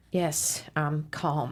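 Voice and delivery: forced calm. Acted. Reluctantly telling her friend she's calm, forced calm. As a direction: force the calm through your teeth. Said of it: "You don't sound calm".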